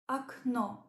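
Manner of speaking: окно as akNO, first o like a, stress on the last o; Russian word окно. Shown as a demonstration. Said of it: "means window".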